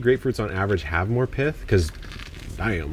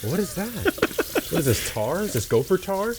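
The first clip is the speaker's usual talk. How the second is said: surprised disgust; 7 semitones higher than usual. Real, not acted. Finds gross sticky stuff.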